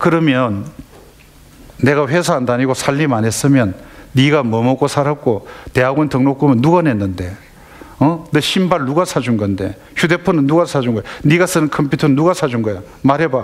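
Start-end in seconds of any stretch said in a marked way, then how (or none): none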